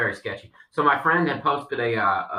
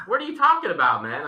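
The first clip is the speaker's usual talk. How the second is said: shocked reply; 6 semitones higher than usual. Retold or imitated. His own retold shocked reply.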